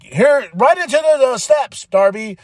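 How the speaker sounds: mock brawler shouting at Darby; mock wrestler taunt. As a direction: shove him toward the steps, cheering.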